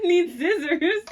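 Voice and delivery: slow, high mock Australian accent. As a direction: say it drawn-out in a would-be Aussie accent. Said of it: "was it an Australian accent".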